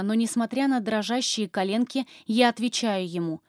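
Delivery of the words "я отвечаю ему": usual speaking voice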